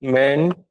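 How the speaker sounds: रिमाइंडर broken up as "ree... men... der"; syllable by syllable. Shown as a demonstration. Teacher sounds out the term for students, रिमाइंडर as "ree-men-der". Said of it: "remainder is different".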